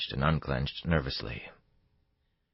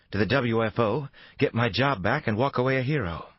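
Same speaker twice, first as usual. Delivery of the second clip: higher female voice, challenging and defiant; Reynolds' voice; 8 semitones higher, 4 dB louder than usual. A narrator's reading.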